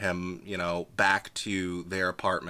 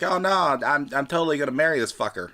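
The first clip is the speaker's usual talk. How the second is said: higher, rushed, breathless cover story; hasty mock excitement; 6 semitones higher, 4 dB louder, faster than usual. Cam blurting to the hunters, rushed and excited. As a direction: blurt out the marriage claim fast.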